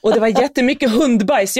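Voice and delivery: a hint of a thrilled little boy; excited kid son. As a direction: retell the son's find like an eager kid. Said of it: "Han bara".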